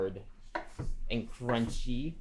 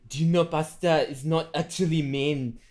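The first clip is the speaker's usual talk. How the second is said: put-on Italian accent; 4 semitones higher, 4 dB louder than usual. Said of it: "Marky does the worst Italian accent".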